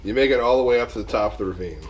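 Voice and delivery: fast, rote delivery of the result; rapid repeat. Real, not acted. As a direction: rattle it off as a repeated ruling. Same result repeated for second player.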